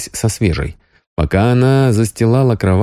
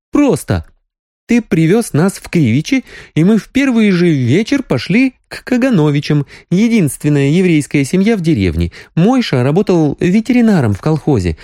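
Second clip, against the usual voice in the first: much higher Sonya voice, wry; sardonic gossip; 10 semitones higher than usual. A narrator's reading. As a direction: tell the scandal with irony. Sonya recounts brother's marriage.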